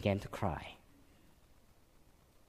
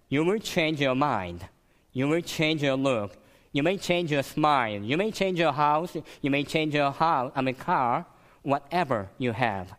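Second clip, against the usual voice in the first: quoted lines rising, louder and higher; quoting King; 4 semitones higher, 4 dB louder than usual. Retold or imitated. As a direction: build the quote like a preacher. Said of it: "Let me just quote from Martin Luther King Junior".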